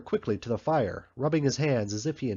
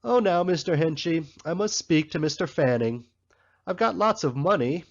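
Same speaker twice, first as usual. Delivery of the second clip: pitched-up, mock fawning voice; mocking the shoe boy again; 5 semitones higher, 4 dB louder than usual. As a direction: sneer while aping his excuses. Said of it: "instead of".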